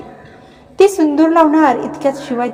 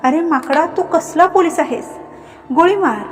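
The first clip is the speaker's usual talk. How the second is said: higher pitched mock shout at him; a playful raised cry across the house; loud call; 4 semitones higher than usual. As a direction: call out, half-teasing, half-scolding. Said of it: "अचानक नुपूरचा मोठा आवाज आला".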